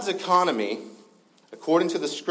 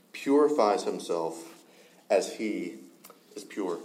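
measured, solemn Bible reading; scripture reading. Acted. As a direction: pastor reading scripture aloud to the congregation, solemn. Reads scripture passage aloud.

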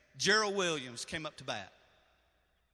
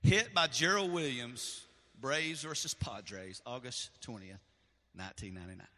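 real emotion, fading to a hush; choked reading; 5 semitones lower than usual. Real, not acted. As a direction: read the inscription through tears. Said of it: "I guess I was a little overwhelmed".

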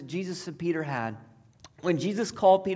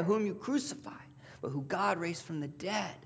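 hushed testimony; 6 dB quieter than usual. Acted. Peter telling the council of the crucified and raised Jesus, whispered. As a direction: drop to a breathy whisper.

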